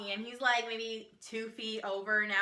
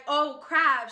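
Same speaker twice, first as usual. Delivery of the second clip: louder mock-dismayed blurt; alarmed realization; 3 semitones higher, 6 dB louder than usual. Man spotted by a fan, mock alarm. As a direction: exclaim it like you've just been spotted.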